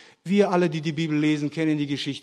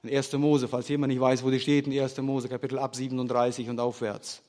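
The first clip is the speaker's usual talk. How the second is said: ordinary delivery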